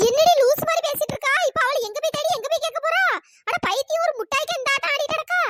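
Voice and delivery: scolding a friend over a missing sweet; exasperated scolding. Acted. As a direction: tell her off for being silly. Scolding friend's silly plan.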